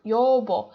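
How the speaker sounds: "여보" with the middle consonant voiced as b; b between vowels. Shown as a demonstration. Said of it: "consonant v like b".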